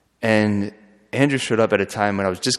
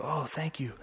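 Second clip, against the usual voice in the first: higher, softer, grateful little voice; grateful woman; 6 semitones higher, 10 dB quieter than usual. Retold or imitated. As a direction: voice the woman's soft thanks, pitched up.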